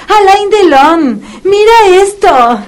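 put-on baby talk to a dog. Vet coaxing the puppy with a toy, high excited baby talk. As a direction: coax the dog like a toddler.

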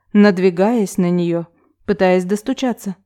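ordinary delivery

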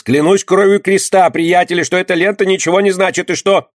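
swearing innocence before the mob; desperate plea. A narrator's reading. Barber pleading for his life.

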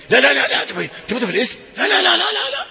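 high, rising no no no; incredulous no. Acted. Preacher mocking revenge on a neighbor, high incredulous no.

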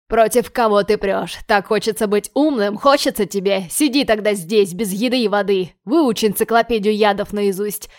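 loud furious yelling. Acted. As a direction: roar abuse at him. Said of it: "а затем орёт".

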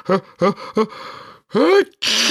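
gasping "a, a, a" then a high sneeze; sneeze build-up. A narrator's reading. Karabas sneezes while asking about parents. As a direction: build up and let the sneeze burst.

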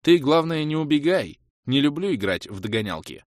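high, loud teasing jab; mocking taunt. A narrator's reading. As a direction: taunt him with a grin. Hero taunts werewolf.

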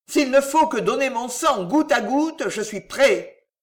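acted ardent pledge; fervent devotion. A narrator's reading. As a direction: offer your life without hesitation. Servant fervently offers his blood.

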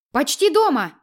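breathless, as if running; panting while on the move; out of breath. A narrator's reading. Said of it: "запыхавшийся голос, как на бегу".

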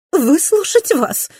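high, loud, slow contempt; scornful echo. A narrator's reading. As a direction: throw her words back.

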